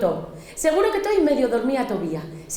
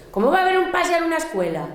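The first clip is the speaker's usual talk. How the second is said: incrédula; 7 semitones higher, faster than usual. Acted. Incredulidad rápida de la niña.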